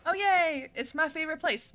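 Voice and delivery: high, loud gleeful cheer; mock delight. Streamer greeting the creepy forest, gleefully over the top. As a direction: cheer far too happily.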